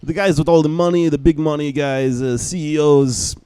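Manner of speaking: mock Israeli accent. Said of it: "this guy with this thick Israeli accent".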